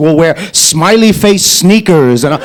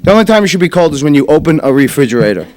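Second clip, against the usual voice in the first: fast punchline; 3 semitones lower, faster than usual. Shown as a demonstration. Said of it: "repeat of punchline".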